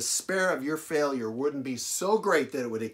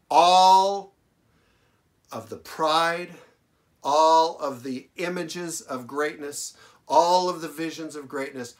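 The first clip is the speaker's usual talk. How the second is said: preaching climax; 4 semitones higher, 7 dB louder than usual. Acted. Preacher crying out to the congregation about lost pride, loud and high. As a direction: cry it out from the pulpit.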